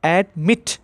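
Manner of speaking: "admit" with the weight on "mit"; stress on last syllable. Shown as a demonstration. Teacher shows students where stress falls, stressing "mit" in "admit". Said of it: "उसमें stress आ रहा है".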